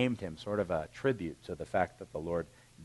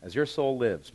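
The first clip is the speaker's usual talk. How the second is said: Oh, my Lord pitched up and louder; earnest plea; 5 semitones higher, 5 dB louder than usual. Acted. Hannah pleading with Eli at the temple, earnest. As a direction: cry out to the priest. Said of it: "And she said".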